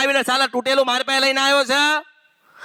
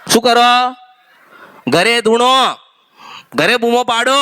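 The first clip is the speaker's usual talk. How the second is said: loud, forceful commands to devotees; commanding shout; 2 semitones lower, 4 dB louder than usual. Acted. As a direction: bark out the order like a possessed goddess. Goddess medium commanding devotees. (જોરથી હુકમ કરતો અવાજ)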